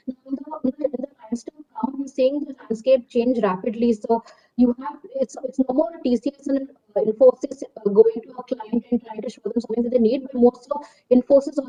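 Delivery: muffled, as if behind a hand; talking through a covered mouth. Real, not acted. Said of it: "your voice is very muffled".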